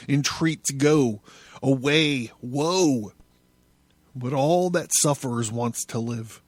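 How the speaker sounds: intense, theatrical recital of a prophetic text; solemn, swelling literary performance; dramatic reading. A narrator's reading. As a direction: declaim it like a poet possessed.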